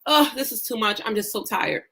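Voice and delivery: imitating someone too tired to go on; mock tired complaint. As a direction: grumble it wearily, dropping away. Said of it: "when your tongue consistently says".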